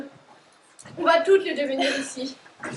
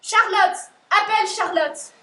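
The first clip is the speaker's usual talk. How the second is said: raised, repeated calls of a name; calling out; 3 semitones higher, 3 dB louder than usual. Acted. Girl keeps calling for Charlotte during the emergency, raised voice. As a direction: call Charlotte across the house.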